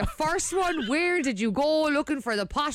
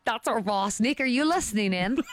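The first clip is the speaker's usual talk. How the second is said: Australian accent; 4 semitones lower than usual. Shown as a demonstration. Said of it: "that's my Australian accent".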